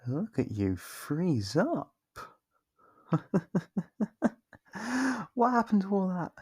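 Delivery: high delighted gloating with a laugh. Acted. Vampire gloats as the hunter freezes, laughing high. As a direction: savour his fear with a high laugh.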